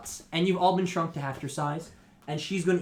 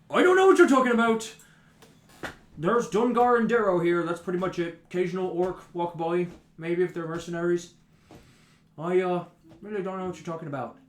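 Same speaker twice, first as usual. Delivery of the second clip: protesting dwarf; 3 semitones higher, 5 dB louder than usual. Acted. Dwarf denying all knowledge to the raider, protesting. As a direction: blurt it out in a defensive character voice.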